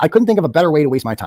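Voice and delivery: ordinary talk, nothing marked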